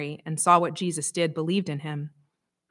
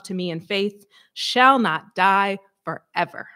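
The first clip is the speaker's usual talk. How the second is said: loud, ringing funeral call; booming voice; 3 dB louder than usual. Retold or imitated. Priest opening a funeral from the back, booming voice. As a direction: boom it from the back of the church. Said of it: "this booming voice from the back".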